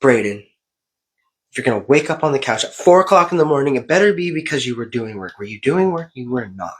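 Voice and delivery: stern self-lecture, mostly in own voice; a light touch of a tough-love parent; self pep talk. Retold or imitated. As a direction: scold yourself like a coach. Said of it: "and I was just like".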